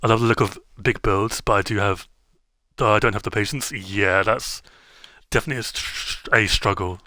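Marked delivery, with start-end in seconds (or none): 5.3-7.0 stuttering over the word. Real, not acted. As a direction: trip on the first sound. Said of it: "My fucking stutter".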